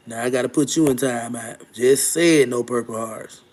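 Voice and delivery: firm reminder to a chatter who broke the rule; stern scolding. Real, not acted. Scolding a viewer in chat.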